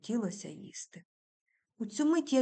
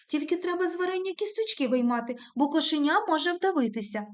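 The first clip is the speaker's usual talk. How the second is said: scornful; 8 semitones higher, 5 dB louder than usual. A narrator's reading. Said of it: "кажу я зневажливо".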